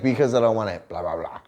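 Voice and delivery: dismissive, sing-song parroting, trailing off; mock her reply as empty; half-hearted mimicry of her excuse; mocking imitation. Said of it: "That's just like".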